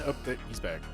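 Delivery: ordinary delivery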